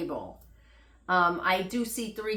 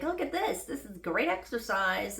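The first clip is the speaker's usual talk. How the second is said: mock upbeat; 3 dB quieter than usual. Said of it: "trying to be positive".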